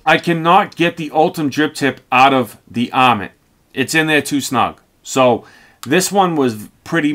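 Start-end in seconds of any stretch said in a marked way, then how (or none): 0.0-5.5 speaking through fingers; slightly muffled by hand; hand over mouth. Real, not acted. Seen 0: Fingers rest on lips and chin while speaking, partly covering mouth.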